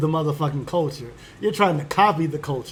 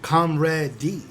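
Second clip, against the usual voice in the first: confused questioning; 4 semitones lower, 3 dB quieter than usual. Retold or imitated. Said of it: "kinda look at you like".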